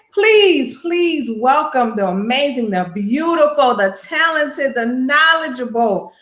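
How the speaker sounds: drawn-out, building announcer welcome; hype introduction. Real, not acted. Host bringing up the judge, grand announcer build. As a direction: stretch each praise toward a big name reveal.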